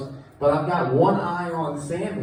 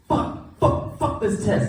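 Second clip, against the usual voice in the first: mock Sammy; 7 semitones higher, slower than usual. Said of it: "Sammy's like".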